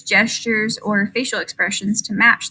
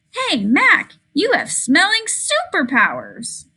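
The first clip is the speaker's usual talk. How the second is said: Hey, Mac pitched high, then slower; playful to the dog; 6 semitones higher, slower than usual. Acted. Child talking to dog Mac, playfully excited. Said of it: "I said".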